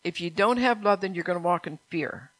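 earnest sermon exhortation; preaching. Acted. Pastor exhorting his church, earnest preaching. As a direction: preach it to the pews.

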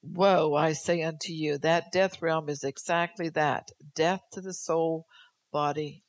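loud preaching warning; prophetic woe. Acted. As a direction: thunder the woe.

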